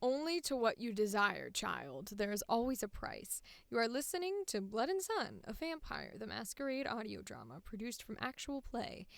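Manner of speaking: a first cold read of villain and title lines; trial read. Shown as a demonstration. Reading a voice-actor audition. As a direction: read the lines through once. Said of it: "Additional lines".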